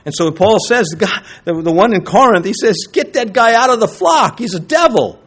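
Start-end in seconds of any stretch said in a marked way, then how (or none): 2.9-5.2 higher-pitched, urgent quoted command; acted stern order. Preacher voicing Paul to the congregation, acted stern order. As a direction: order someone thrown out, voice raised. Acting out Paul's order to expel.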